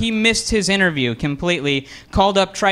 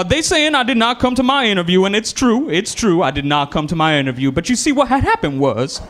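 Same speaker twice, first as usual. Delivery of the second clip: animated put-on caller voice; caller making excuses; 2 semitones higher than usual. Job applicant calling back about a missed interview, hammed-up excuse voice. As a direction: concede the point, then launch into an excuse. Caller protests again, then admits.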